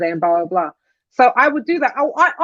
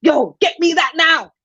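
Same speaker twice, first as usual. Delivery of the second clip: mock-bombastic brother-in-law, drawn out and raised in pitch; slow, higher-pitched bombastic order; loud bombastic impression; 4 semitones higher than usual. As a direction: boom it out slowly, imitating a bossy relative. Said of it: "he has a very loud, bombastic voice".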